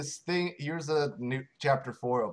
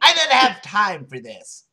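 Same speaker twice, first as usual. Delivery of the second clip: loud, high rushed line; anxious Naomi; 4 semitones higher, 10 dB louder than usual. Acted. Naomi impatient with the flirting desk lady, loud. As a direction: blurt it out, flustered. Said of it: "said Naomi anxiously".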